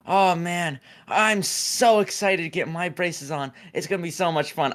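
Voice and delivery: imitating an eager young girl; excited girl. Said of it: "She was like".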